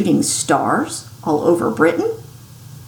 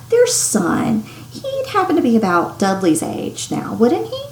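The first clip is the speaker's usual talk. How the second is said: forced casual; 4 semitones higher than usual. Acted. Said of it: "as casually as he could".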